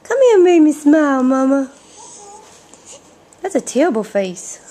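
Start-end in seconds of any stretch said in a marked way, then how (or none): 0.0-1.7 put-on louder, quick baby voice. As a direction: speak as the baby calling Mama. Parent speaks as the baby.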